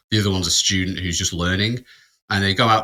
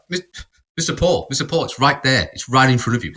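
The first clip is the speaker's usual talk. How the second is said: mock pointing out; 4 semitones higher than usual. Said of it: "Like I'm an idiot".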